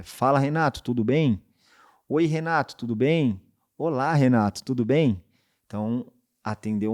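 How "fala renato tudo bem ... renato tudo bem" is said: casual greeting. Shown as a demonstration. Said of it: "Se eu vou ligar pra um homem".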